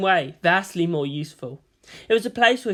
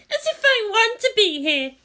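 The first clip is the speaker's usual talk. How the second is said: dark mutter; 3 dB louder than usual. A narrator's reading. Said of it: "Asuka muttered darkly".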